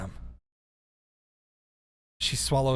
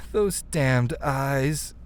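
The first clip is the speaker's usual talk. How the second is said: Jinshi voice; much slower than usual. Shown as a demonstration. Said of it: "Jinshi would be like".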